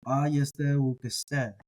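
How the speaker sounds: aieste uk este drawn out, both stressed; slow echoing pair. Shown as a demonstration. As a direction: stretch aieste uk este to show the echo. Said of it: "they kinda echo each other".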